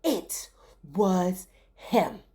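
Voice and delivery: slow, low pointed accusation; lightly voiced accusing woman. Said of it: "she pointed her finger and said".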